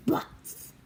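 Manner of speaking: cheeky whispered word; whispering. Real, not acted. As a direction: whisper it like a naughty secret.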